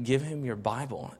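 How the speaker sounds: a hint of a still small voice from God. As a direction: speak it gently like a quiet voice in your head. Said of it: "I hear it again".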